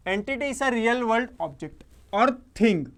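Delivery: "or thing" stretched out slowly and punched; slow teacherly reading, weight on "or thing"; emphatic definition reading. Real, not acted. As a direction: read the definition very slowly, landing hard on "or thing". Reads out key definition emphatically.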